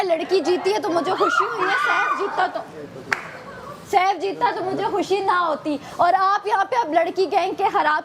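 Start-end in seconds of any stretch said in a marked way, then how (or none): 0.0-5.8 laughing quote. Retold or imitated. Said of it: "Zainab ने जाके कहा".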